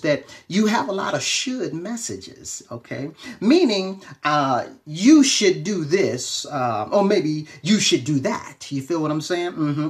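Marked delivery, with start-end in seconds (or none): 4.2-8.7 slow drawn-out preaching. Acted. Pastor drawing out advice slowly to his online audience, slow preaching drawl. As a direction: stretch every word out slowly, preacher style. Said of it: "I don't know why I'm talking like this".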